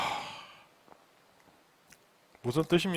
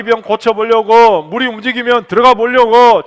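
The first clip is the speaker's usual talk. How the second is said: loud, higher-pitched pulpit delivery; full-force preaching; 6 semitones higher, 12 dB louder than usual. Real, not acted. Pastor telling the congregation of the man at the pool, forceful preaching.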